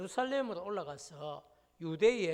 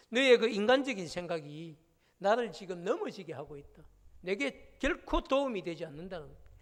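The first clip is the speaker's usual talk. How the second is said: louder, firm scolding; stern reproach; 3 semitones higher, 4 dB louder than usual. Retold or imitated. Jesus scolding Peter for human thinking, firm loud reproach. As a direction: reproach him for thinking like a man. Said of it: "주님께서 책망을 도리어 하시는 것이죠".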